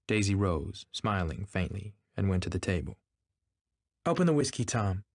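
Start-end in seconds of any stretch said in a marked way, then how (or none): 4.0-5.0 high, commanding order. A narrator's reading. Daisy telling her husband to open whiskey, ordering. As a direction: give the order in a raised voice, dropping on the name. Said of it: "she ordered".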